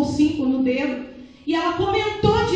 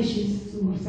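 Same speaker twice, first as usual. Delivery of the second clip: shocked gasp of Jesus; 5 semitones lower, 7 dB quieter than usual. Retold or imitated. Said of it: "aquilo me deu um choque".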